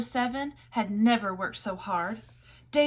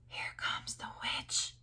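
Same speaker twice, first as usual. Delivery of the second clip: voiceless, slow, hushed warning; frightened whisper; 10 dB quieter than usual. A narrator's reading. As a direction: hiss it so the witch won't hear. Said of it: "they whispered".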